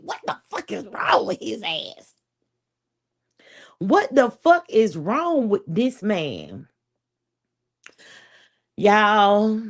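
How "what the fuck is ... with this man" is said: exasperated disbelief. Retold or imitated. Baffled about her man's insistence, exasperated. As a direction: marvel at him, baffled. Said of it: "I'm like".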